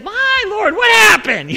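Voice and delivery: high startled cry of alarm. Retold or imitated. Philistine priests finding Dagon fallen, startled high cry. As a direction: voice shooting up in panic at the sight.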